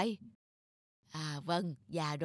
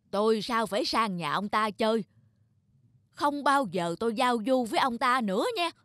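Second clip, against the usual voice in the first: indignant refusal; 2 semitones higher, 4 dB louder than usual. Acted. Old man refuses neighbour's friendship.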